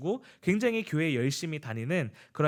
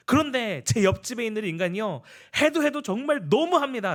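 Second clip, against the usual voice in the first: raised, heated complaint to the pastor; angry protest; 6 semitones higher than usual. Retold or imitated. Deacon storms in to the pastor, angry and raised. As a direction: vent hot indignation, voice climbing higher. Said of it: "잔뜩 화가 나가지고 목에 막 핏대를 세워가지고".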